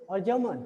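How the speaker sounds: falling tone on "German". Shown as a demonstration. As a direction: let "German" drop to close the choice. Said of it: "जर्मन आपका falling ही है". ("German" पर गिरता हुआ स्वर)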